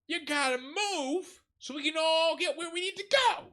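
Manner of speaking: very high, loud mock holler; hammed-up diva shout; yelling out the window. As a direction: holler at people blocking the road. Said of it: "rolls down the window and goes".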